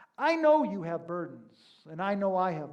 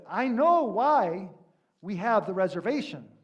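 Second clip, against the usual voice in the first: curt rental clerk; 6 dB louder than usual. Retold or imitated. Rental clerk answers Seinfeld.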